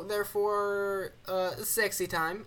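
put-on drawn-out Borat accent on sexy time; Borat impression. Mimicking Borat to a cohost. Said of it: "as you would call it".

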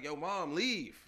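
lightly voiced kid brushing his mother away; a hint of an embarrassed teen son; bratty teen. Teen telling his mom to leave.

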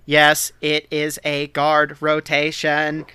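slow, deliberate thief voice; lightly voiced smooth rogue; Lupin voice. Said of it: "doing the Lupin voice".

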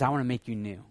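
a hint of quiet, tender God; God's tender promise. God lightly voiced promising to forgive the failed hearts, tender. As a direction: speak it softly as a loving promise. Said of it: "and he says".

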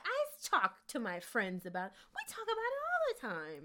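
a mock airy white lady, rising sharply. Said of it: "And she's like".

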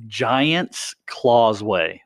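Giant's Causeway said slowly and clearly; slow corrective repeat; slow, careful correction. Shown as a demonstration. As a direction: spell it out slowly to correct her. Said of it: "Giant closet?".

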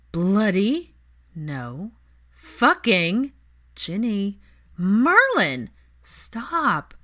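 rising shriek of glee; loud excited outburst; shrill anger. Acted. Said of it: "before she shrieked".

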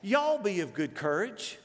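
slow Southern drawl; leisurely Southern lilt; Southern y'all accent. Acted. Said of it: "with that accent".

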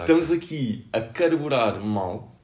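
rough hungover voice. Real, not acted. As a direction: sound like the morning after. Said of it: "Isto é voz de ressaca". (voz de ressaca)

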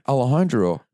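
"Alejandro" with loose American vowels; English-accented pronunciation. Retold or imitated. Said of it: "Why are you pronouncing".

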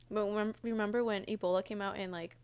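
talking with food in mouth; words round a mouthful of cereal; mouth full. Real, not acted. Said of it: "sorry, I have food in my mouth".

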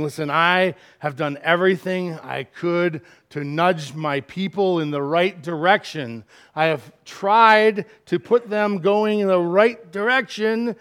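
mildly exasperated venting, building a little. Acted. God venting over his people, mildly exasperated. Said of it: "He's venting".

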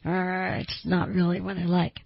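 understated throwaway self-put-down; self-disparaging. Shown as a demonstration. Someone insecure throwing out how they feel, mildly self-disparaging. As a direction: toss it out there, putting yourself down. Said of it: "that tone of voice that's disparaging to yourself".

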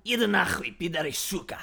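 Russian cursing. Shown as a demonstration. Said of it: "say them".

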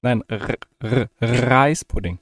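slow, words round a bite of food; mouth full. Real, not acted. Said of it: "was ist Reispudding?".

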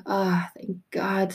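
soft, slow, breathed-out relief; acted whispery relief; relieved sigh. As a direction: sigh it out, finally at rest. Relief after rush to plane.

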